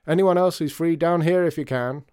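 loud high call up the stairs; shouting. A narrator's reading. Artie shouting up the stairwell for helpers, loud and high. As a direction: bellow for help up the stairwell. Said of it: "shouted Artie up the stairwell".

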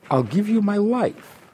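a self-satisfied devotee offering his life; mock devotee pleading.

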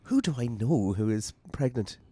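slow, puzzled mock question; mock confusion. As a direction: imitate someone slowly working it out, confused. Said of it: "You look at the confusion".

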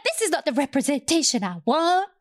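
high mock-outraged complaint. Viewer complaining about the show, high and mocking. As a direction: whine it like a fed-up viewer. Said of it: "I'm like".

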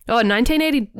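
talking through hiccups; words broken by a hiccup. Real, not acted. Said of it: "excuse me, I got the hiccups".

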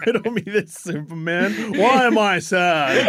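whiny villain. Retold or imitated. Imitating Lex, laughing.

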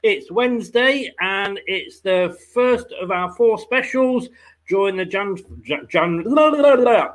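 stumbling over loose dentures; words tripping on loose teeth. Real, not acted. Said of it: "Put my teeth in and try that again".

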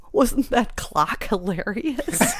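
drawn-out question through laughter; imitated amused audience. Audience member after the show recalling the clock, amused and laughing. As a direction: laugh while mimicking a delighted theatergoer.

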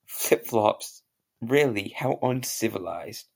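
put-on posh British accent. A posh Englishman greets an American, in a British accent. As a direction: play the proper English gent. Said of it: "I have a very good British accent".

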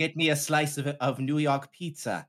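put-on laboured, slowing New York accent; clumsy put-on New York voice; attempted New York accent. Podcaster improvising a pizza order in a bad New York accent. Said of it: "doing a New York accent".

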